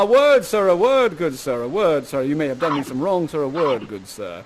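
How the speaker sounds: hammed-up father demanding attention, winding down; protesting father. Father pulling the suitor aside, theatrical protest sinking away.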